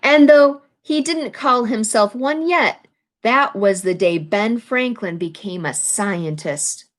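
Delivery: storybook read-aloud, lively phrasing; picture-book narration; reading to children. A narrator's reading. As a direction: read the page to the class.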